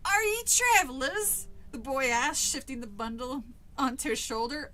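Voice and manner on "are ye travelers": Cockney, slow and rising to a loud question; British accent. A narrator's reading. Village boy questions two strangers, British accent. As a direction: ask it in hammed-up Cockney. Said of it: "very proud of that British accent".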